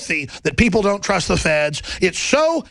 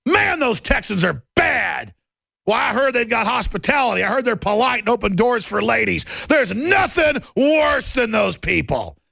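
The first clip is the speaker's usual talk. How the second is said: mock outrage; 3 semitones higher than usual. Sarcastically poses as someone scorning Texans.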